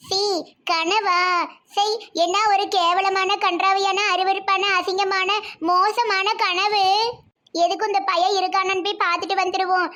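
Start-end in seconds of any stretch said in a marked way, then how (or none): 0.1-6.8 slow, emphatic revulsion, word by word; disgusted. Acted. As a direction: spit out each adjective, stretching the last. Mother wakes from horrible dream.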